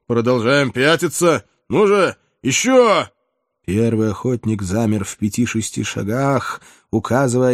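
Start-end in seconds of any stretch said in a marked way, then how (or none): 0.1-3.1 urging on. Acted. Cossack urging on during the escape.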